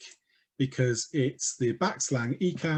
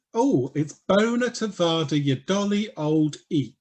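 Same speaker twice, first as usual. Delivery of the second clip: camp Polari greeting; 3 semitones higher than usual. Shown as a demonstration. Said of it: "the most famous sentence in Polari".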